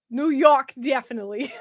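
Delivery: put-on New York accent gone Russian; accidental Russian-tinged accent; accent slipping into Russian. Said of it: "It turned Russian".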